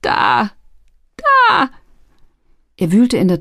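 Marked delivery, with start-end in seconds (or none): 0.0-1.7 high, frantic outbursts; frightened lad giving up the goods; panicked surrender. A narrator's reading. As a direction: blurt it in terror, in separate bursts. Terrified lad hands over papers.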